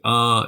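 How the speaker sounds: "uh" as a short, weak schwa; reduced have. Shown as a demonstration. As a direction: swallow have down to a quick "uh". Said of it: "When have is a grammatical word, it can be".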